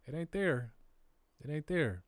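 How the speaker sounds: high, drawn-out voice for the data talking back; a playful high voice for the data. Acted. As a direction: let the data answer in a sing-song high voice. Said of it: "The data is telling us".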